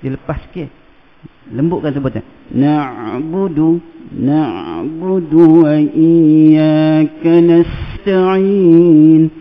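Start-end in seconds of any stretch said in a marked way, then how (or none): 2.5-9.3 Quran recitation. Shown as a demonstration.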